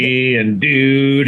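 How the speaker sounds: slow, drawn-out surfer dude voice; mock surfer drawl, very slow. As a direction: stretch it out like a laid-back surfer. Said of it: "he was, like, surfer dude".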